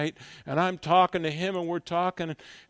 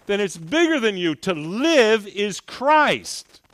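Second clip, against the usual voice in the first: drawn-out, louder emphasis on LIVE; slow emphatic preaching; 6 dB louder than usual. Acted. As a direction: land it slowly and loud. Preaching climax.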